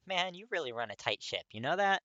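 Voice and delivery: put-on playful young guy ribbing his study partner; teasing friend. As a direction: tease him for being strict. Kirishima teasing Katsuki.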